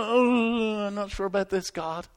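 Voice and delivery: mock-nervous wavering, starting high; a little nervous. Nervous Christian unsure before God, acted with mild nerves. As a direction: act out mild unease, drawing out the "Oh". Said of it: "just a little bit nervous".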